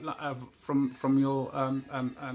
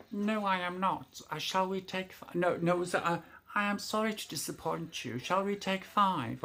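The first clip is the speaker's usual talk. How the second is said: lightly voiced phone assistant, higher; tinny robot voice; 5 semitones higher than usual. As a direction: answer as the prim voice assistant. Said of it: "he went".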